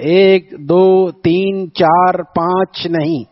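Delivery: lightly mimicked poet, counting very slowly; imitating the poet's style. Preacher mimics poet Nuh Narvi counting sins, slow mock recital. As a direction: drag out each number like the old poet. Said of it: "یوں شعر پڑھتا تھا".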